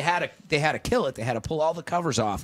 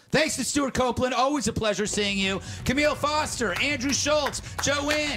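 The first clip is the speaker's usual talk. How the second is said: higher-pitched host roll call of guests; show sign-off; 8 semitones higher than usual. Real, not acted. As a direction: read out the closing thank-yous, pitch lifted on each name.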